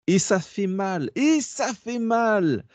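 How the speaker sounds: high, drawn-out wail of hurt, hammed up; dramatised pain. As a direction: stretch it out high, playing up the agony. Mock wail over heartbreak warning. (douleur surjouée, voix aiguë et traînante)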